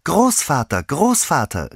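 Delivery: put-on high, loud, excited child's call; beside oneself. A narrator's reading. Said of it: "rief das Kind wie außer sich". (außer sich rufendes Kind)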